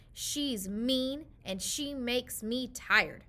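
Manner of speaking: slow, whiny complaint; tired child grumbling. Acted. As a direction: drag out the grumble. Hannah complaining to dad.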